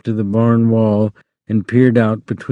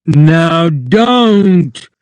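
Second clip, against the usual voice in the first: louder, firm warning; angry; 6 semitones higher, 5 dB louder than usual. A narrator's reading. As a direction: warn her sharply. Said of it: "Lenny grew angry".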